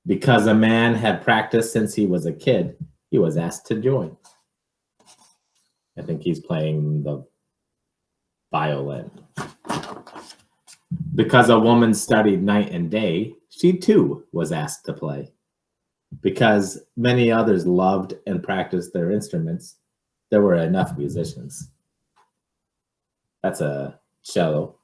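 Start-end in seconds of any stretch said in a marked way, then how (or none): 0.0-4.2 put-on lively read-aloud for children; picture book reading. 11.1-21.7 put-on lively read-aloud for children; picture book reading.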